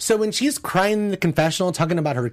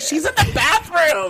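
high, sharp mock outrage; shocked exclaim; 8 semitones higher than usual. Retelling Tamra's gossip, high shocked exclaim. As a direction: gasp it out, scandalised. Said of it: "I'm like".

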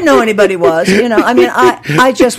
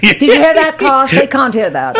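imitating a teacher's triumphant scorn; raised, affected classroom voice; evil teacher; 4 semitones higher than usual. Teacher showing up student before class, scornful. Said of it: "The teachers would say".

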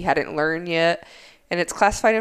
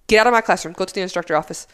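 raised, louder stern command; 3 dB louder, faster than usual. Retold or imitated. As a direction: order him out, voice raised. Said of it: "I raised my voice".

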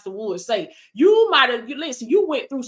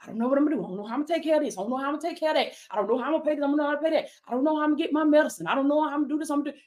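rapid, softer frantic fretting, a mild mock panic; mock worrier; 3 dB quieter, much faster than usual. Preacher mocking a panicking believer for viewers, fast fretting. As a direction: rattle off the worries like a flustered person. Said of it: "We ain't running around here like".

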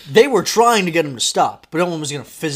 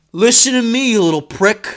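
loud, raised acted threat; menacing dad; 6 semitones higher, 7 dB louder than usual. Dad bending down to a second grader, menacing. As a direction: lay into the kid, breaking into laughter.

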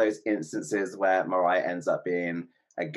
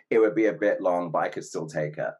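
deadpan; 2 semitones lower than usual. Retold or imitated. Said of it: "looked deadpan the camera and said".

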